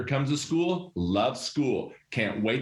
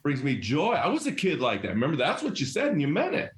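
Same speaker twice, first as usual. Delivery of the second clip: earnest interview answer; 3 semitones higher than usual. Retold or imitated. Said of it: "What did you say in the interview?".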